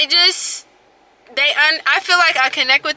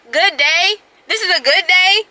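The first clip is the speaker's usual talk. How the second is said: incredulous; 5 semitones higher than usual. Real, not acted. Outraged at doctor's remark.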